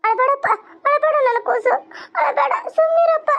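high-pitched coaxing voice; hushing a baby. Acted. Parent telling a crying baby to stop, high hushing voice. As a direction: pitch it right up to soothe a little one.

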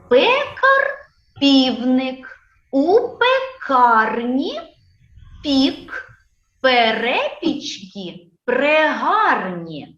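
slow verse, word by word with pauses; measured, drawn-out poem reading; poem recitation. Shown as a demonstration. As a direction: recite a children's rhyme so each word can be picked out. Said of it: "послухайте уважно віршик".

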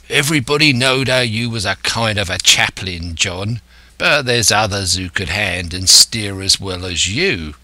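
lightly voiced sailor's dialect; a hint of a grumbling seaman; disgruntled coxswain. Israel answering Silver back, lightly voiced disgruntled sailor.

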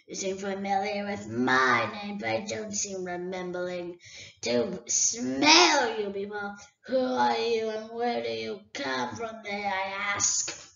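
a great dragon toying with a thief; dragon Smaug. Acted. Smaug questions Bilbo.

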